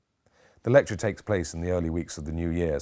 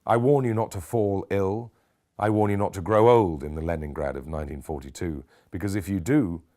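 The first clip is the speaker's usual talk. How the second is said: Neil Kinnock; 3 semitones higher, 4 dB louder than usual. Acted. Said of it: "channeling Neil Kinnock now".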